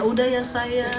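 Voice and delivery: softly soothing a sulking wife; gentle, drawn-out mock coaxing; coaxing husband. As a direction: play the husband tenderly comforting her. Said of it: "Berharap suaminya bujukin dia".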